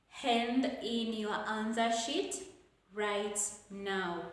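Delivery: "sheet" up, then "right now" falling; falling command intonation. Shown as a demonstration. Teacher reads out a command, with falling intonation. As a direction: drop "right now" after a short pause. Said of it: "all commands will take a falling".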